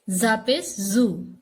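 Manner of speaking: जू hit firmly and slowly; hard zu. Shown as a demonstration. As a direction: press जू hard. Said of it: "जू को सख्ती से पढ़ना है".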